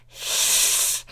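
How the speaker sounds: long snake-like hiss; villain hiss. Acted. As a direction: hiss at the rival. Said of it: "Chrysalis hissed".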